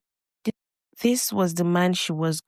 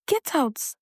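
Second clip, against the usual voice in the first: shouted; 6 semitones higher than usual. A narrator's reading. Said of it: "Ifeoma shouted".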